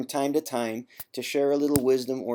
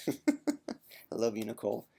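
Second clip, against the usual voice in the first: slow, breathy whispered aside; 2 semitones lower, 6 dB quieter, slower than usual. Real, not acted. Fondly telling forum host Nicole he loves her, whispering.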